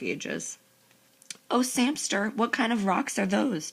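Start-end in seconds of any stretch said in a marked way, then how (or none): 1.5-3.7 put-on drawn-out, cloying girlish gushing; mock a sister's icky-sweet little voice. A narrator's reading. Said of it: "her icky little voice".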